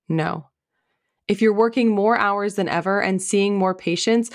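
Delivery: ad read. Acted. Recorded ad read with music.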